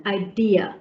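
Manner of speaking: idea said i-dee-ya, falling; linking y sound. Shown as a demonstration. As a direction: put a y glide inside idea. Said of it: "a y sound".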